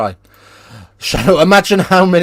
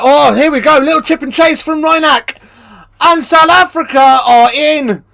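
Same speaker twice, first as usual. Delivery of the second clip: much higher, loud play-by-play call; excited commentary; 12 semitones higher, 6 dB louder than usual. Acted. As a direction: build it up as the try goes in.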